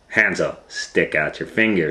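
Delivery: lightly voiced witch. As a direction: order him to stick out his finger. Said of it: "she said".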